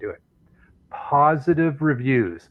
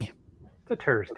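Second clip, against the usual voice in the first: slow, softer echo in put-on Irish, "Thursday" as "Turs-day"; mock Irish accent; 6 dB quieter, slower than usual. Co-host echoes the joke, slow mock Irish accent. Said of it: "alienated all of our Irish listeners".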